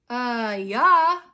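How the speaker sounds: mock mouthful of cake; thick, mouth-full agreement. A narrator's reading. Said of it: "his mouth full of cake".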